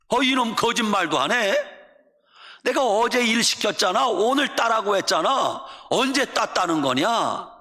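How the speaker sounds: indignant, insistent parental rebuke; father yelling. Acted. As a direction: scold a child you think is lying. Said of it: "아버지가 냅다 소리를 지릅니다".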